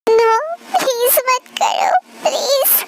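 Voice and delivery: wife begging the king not to go on; pleading. Acted. Tae begs again.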